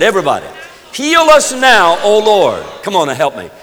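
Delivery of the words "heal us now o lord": loud, high call leading a congregation in prayer; praying aloud. Real, not acted. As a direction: cry the prayer out to God. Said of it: "pray that prayer".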